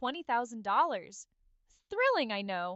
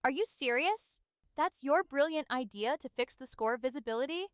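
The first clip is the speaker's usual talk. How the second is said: scornful, questioning disbelief; scoffing; 3 semitones higher than usual. Acted. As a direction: scoff at the idea, pitch lifting.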